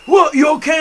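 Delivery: loud, high imitated alarm. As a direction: call out in sudden worry. Friends alarmed by his yell.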